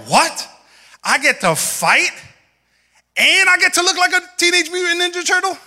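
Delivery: put-on high, eager boyish disbelief; a kid thrilled he gets to fight; excited kid. Kid asking his mom, thrilled and high-pitched. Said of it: "So I was like".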